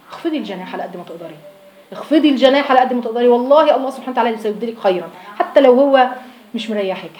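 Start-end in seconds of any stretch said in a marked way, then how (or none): 0.1-1.3 much softer, gently pleading; soft gentle counsel; soft tender advice. Shown as a demonstration. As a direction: murmur it like a kind aside. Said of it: "repeated advice".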